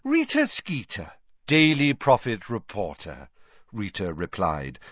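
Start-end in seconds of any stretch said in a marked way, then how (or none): 0.0-3.3 high, bright journalist voice; chirpy reporter introducing herself; Rita's voice. A narrator's reading. Rita Skeeter greeting Harry, in a high sweet voice.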